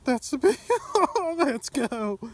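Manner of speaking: loud, high, stretched-out reading of the weight; real joy at a personal best; excited shout. Real, not acted. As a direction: call out the number like a record. Reads scale, personal best.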